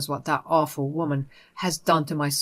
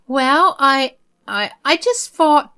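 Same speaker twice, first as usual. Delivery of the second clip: higher, louder stammering mother's voice; flustered mother; 7 semitones higher, 7 dB louder, slower than usual. Acted. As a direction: caught out, fumbling for words.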